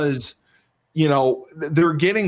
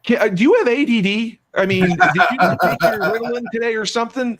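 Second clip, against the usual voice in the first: exasperated ribbing; 7 semitones higher, 3 dB louder than usual. Real, not acted. Ribbing a distracted colleague.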